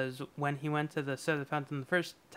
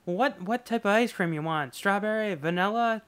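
put-on higher, eager counter kid; mock soda jerk; 5 semitones higher than usual. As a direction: rattle off the flavours. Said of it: "he goes".

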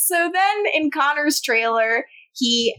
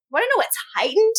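fast, higher melodrama; mock dramatic; 3 semitones higher than usual. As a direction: ham up the grief.

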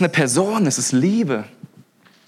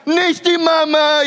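put-on much higher, louder and slow, whiny baby cry; Dinos baby wail; 13 semitones higher, 5 dB louder, slower than usual. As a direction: wail it like the cartoon dino baby. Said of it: "er fängt an zu heulen und zu schreien und sagt".

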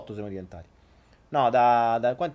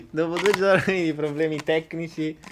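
metallic voice. Real, not acted. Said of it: "vi piace la voce metallica?".

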